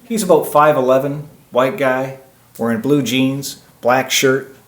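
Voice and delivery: mock witness description, item by item; describing an attacker by phone. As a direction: pretend you're reporting him into a phone. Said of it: "start describing that person walking towards".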